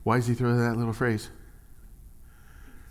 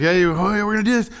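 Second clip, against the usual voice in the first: mock enthusiasm; 10 semitones higher, 7 dB louder, faster than usual. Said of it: "It's like".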